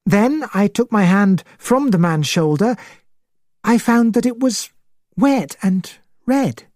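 high-voiced witness recounting a shock; excitable gentleman, high voice throughout; excited, high. A narrator's reading. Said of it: "He spoke in an excited, high voice".

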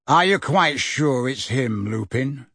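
a slow, understated growl; suspicious old auror grumbling; mild growl. Acted. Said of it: "he growled".

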